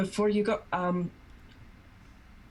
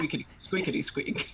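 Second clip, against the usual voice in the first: rubbery high squeaky toy; 2 semitones higher than usual. Acted. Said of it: "There you go. Perfect".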